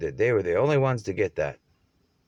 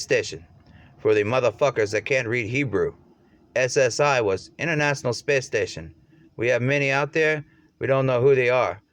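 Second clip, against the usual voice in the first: heated rant; 3 semitones higher, 4 dB louder than usual. Retold or imitated. Heated rant in a retold quote.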